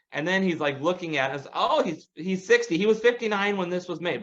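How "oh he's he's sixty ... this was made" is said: mock read-out, higher pitched; reading aloud. Neighbor reading Google's answer aloud, lightly mocked. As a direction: read the answer off the phone, imitating him. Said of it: "reading out loud".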